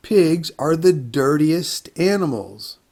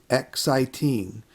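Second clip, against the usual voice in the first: slow syllable count; 4 dB quieter, slower than usual. Shown as a demonstration. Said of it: "How many syllables are in this word?".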